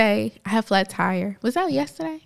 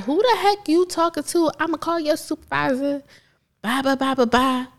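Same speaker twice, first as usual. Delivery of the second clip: higher-pitched indignant imitation, trailing into blahs; mock confrontational comeback; 6 semitones higher than usual. Imagined comeback to a rude tire guy, mock indignant. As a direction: act out a Jersey-style clapback. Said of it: "if somebody gets rude with you".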